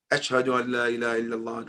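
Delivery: quick, lightly parroted recitation; parrot mimicking. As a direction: rattle it off fast like a parrot repeating words. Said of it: "learned how to say".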